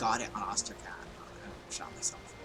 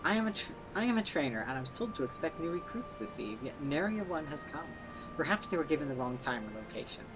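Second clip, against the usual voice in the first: formal trainer voice. Acted. Voices old-fashioned trainer NPC.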